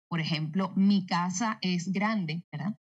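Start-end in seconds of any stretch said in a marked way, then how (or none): 0.7-2.4 slow, measured "Mi casa es grande" with falling end; neutral-accent statement. Shown as a demonstration. Dubbing actress demonstrating an affirmation, slow neutral statement. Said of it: "si yo quiero decir una afirmación".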